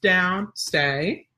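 normal command tone. Shown as a demonstration. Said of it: "my normal tone for".

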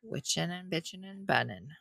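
playful whispered chant; whispering. Pretend. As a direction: breathe it out as a secret.

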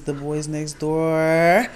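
slow, drawn-out title announcement; show intro. Real, not acted. Host naming the podcast for listeners, drawn-out announcer style. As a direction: stretch the last word like a host.

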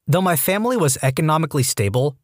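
ordinary delivery

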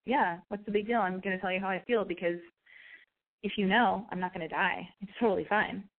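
nonchalant, slightly low-pitched delivery; casual. Shown as a demonstration. Coaching a girl to confess her crush, casual and nonchalant. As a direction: toss it off as if you don't care. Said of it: "say it in a really casual".

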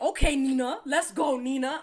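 loud, high group urging; mock group nagging. The group rushing Nina, loud and high. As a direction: hurry Nina along. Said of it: "They were like".

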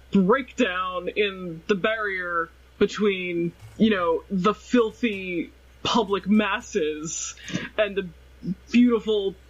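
slow, dry mock-grand sarcasm; sarcastic. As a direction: drawl it out with sarcasm. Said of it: "Because I'm being sarcastic".

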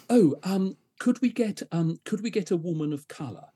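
imitating the estate agent's prim request; mock posh client. Retelling the agent's phone request in a mock prim voice.

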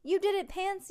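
high, loud victory cry; yelled triumph. A narrator's reading. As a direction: yell praise to your winning racer. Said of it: "yelled Stink".

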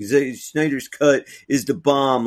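lightly mock a fan who loves the Snyder cut; mock fanboy. Mocking a Snyder fanboy to his cohost, slow and gushing. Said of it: "I'm not a fucking fanboy that's like".

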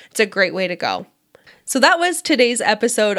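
nasal with a cold, some vocal fry; stuffy nasal cold voice, a bit of fry. Real, not acted. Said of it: "I'm a little bit nasally and have a bit of vocal fry".

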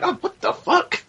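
high-pitched incredulous outburst; retold bafflement. Viewer recalling how the accent stood out, baffled. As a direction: squeal it in mock disbelief. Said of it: "it was weird".

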